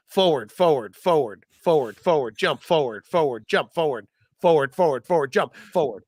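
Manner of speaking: evenly repeated game commands, each falling. Pretend. Player giving the game voice commands, repetitive command delivery. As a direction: recite commands to a game headset. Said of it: "playing this game like this".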